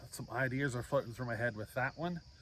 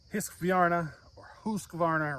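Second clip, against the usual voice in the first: Swedish accent; 5 semitones higher, 5 dB louder than usual. Shown as a demonstration. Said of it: "my horrible Swedish accent".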